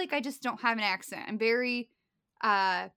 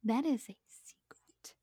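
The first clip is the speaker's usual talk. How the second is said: playful hushed whisper; unvoiced-breath stage whisper, softer; secretive whisper; 5 dB quieter than usual. Mock secrecy about her origins.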